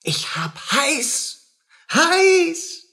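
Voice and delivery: tearful, slowed, rising to a cry on the last heiß; half-sobbing in a fever; feverish whimper. Acted. Wirtshaus, fiebriger Wahn. (fiebrig weinerlich, langsam)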